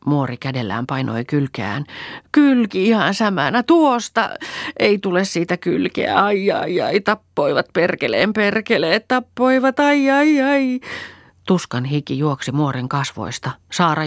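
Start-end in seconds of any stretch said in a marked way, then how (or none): 2.3-10.8 put-on high, louder pained old woman; pained groaning. A narrator's reading. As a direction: moan and curse in pain. Muori in pain, clutching side.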